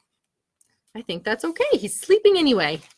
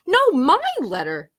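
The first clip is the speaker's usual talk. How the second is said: slow, firm insistence; insisting; 4 semitones higher than usual. Acted. Hedgehog stealing the letter away, slow insisting. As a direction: lean on it, you won't budge. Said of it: "insisted Hedgehog".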